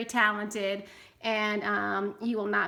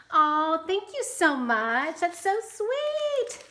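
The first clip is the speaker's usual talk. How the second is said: high, slow, drawn-out coo; gushing thanks; 6 semitones higher, 4 dB louder, slower than usual. Real, not acted. Thanking a crafter for her happy mail, in a high slow coo. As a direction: melt over the gift, stretching it out.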